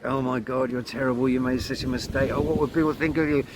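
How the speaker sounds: self-critical inner voice. Retold or imitated. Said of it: "instead of think".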